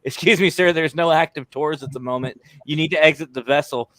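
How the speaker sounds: mock stern yell. Prank yelling at Mason to leave the deck, mock official sternness. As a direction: play a strict ship guard ordering him off. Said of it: "So I yelled at him. He thought I was being serious".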